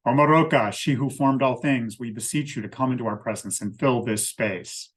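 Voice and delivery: calling the name out loudly, then settling; loud invocation. Shown as a demonstration. Priestess calling Omaroka into the circle, loud invocation. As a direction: proclaim the goddess's name to the room. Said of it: "say in a loud voice".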